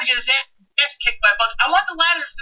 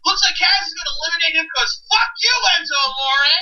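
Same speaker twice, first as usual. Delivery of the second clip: excited shout; 3 semitones higher than usual. Pretend. Fantasy announcer call.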